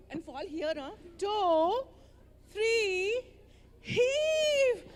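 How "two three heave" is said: big higher louder heave; heaving call. Acted. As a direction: put the whole pull into the word. Final pull of the turnip.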